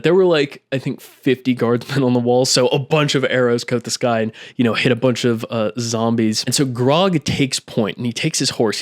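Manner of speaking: normal talking voice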